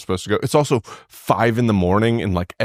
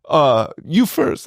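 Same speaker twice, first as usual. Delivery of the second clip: slow polite Spanish guy; 7 semitones higher, slower than usual. Retold or imitated. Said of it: "he goes".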